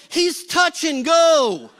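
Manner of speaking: mock panic, stretching the words slowly. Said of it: "David's panicking".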